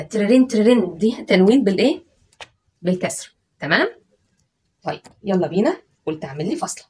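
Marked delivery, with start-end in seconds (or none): 0.0-1.0 trrin rung out like a bell; bell sound trrin. Shown as a demonstration. Teacher ringing a bell to show tanween. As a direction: ring it like a doorbell. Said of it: "زي الجرس كده".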